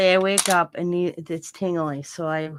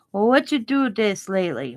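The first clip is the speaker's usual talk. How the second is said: lightly mimicked Chinese-accented English; mild impression of Chinese-accented questioning; imitated Chinese accent; 3 semitones higher, 4 dB louder than usual. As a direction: ask with a hint of Chinese accent. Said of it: "that's how he kinda talked".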